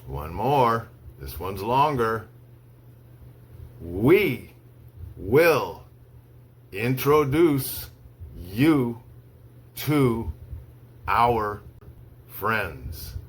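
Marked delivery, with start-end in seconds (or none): 3.8-13.1 slow, one word at a time with long pauses; slow dictation. Shown as a demonstration. Teacher reads to students for dictation, slow, word by word. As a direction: read it word by word so they can write. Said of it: "I'll say each sentence slowly three times".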